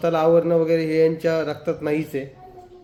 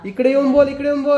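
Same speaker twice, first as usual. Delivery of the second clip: much higher, louder call; 11 semitones higher, 7 dB louder than usual. Real, not acted. Mother loudly calls child to come speak.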